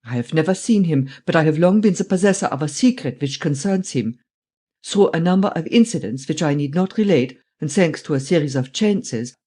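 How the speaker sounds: put-on German-accented old man explaining; old German man, confiding. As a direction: lay out the story in a German accent. Voices old German Steinweg explaining.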